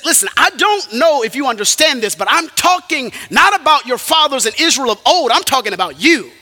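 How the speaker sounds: forceful acted rebuke; confronting rebuke. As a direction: press the charge on the listeners. Stephen confronting his listeners.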